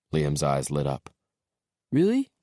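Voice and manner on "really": put-on high, loud thrilled little boy; excited little boy. A narrator's reading. Little boy hearing about a big backyard, excited squeak. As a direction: squeak it out with delight. Child's eyes light up.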